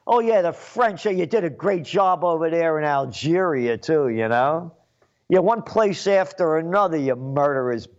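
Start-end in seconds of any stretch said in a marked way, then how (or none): 0.1-4.7 sneering mock applause for the French; sarcastic. Real, not acted. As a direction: fake praise dripping with scorn. Sarcastic praise of French colonialism.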